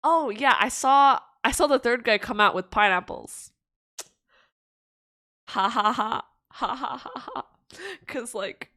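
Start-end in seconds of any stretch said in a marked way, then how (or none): 0.0-3.5 punchline reveal. Acted. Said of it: "then the guy goes". 5.5-7.5 laughing. Real, not acted. Laughing at own joke.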